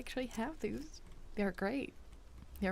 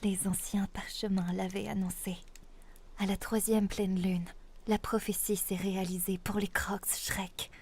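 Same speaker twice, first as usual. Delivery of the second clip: grand storybook princess proclaiming; Zelda princess voice. Pretend. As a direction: announce the prophecy like a princess. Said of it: "Zelda princess voice".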